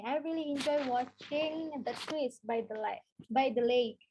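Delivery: unhurried, clear example; slow teacher read; slow model sentence. Shown as a demonstration. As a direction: read slowly for the class. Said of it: "kalian bisa pakai ini".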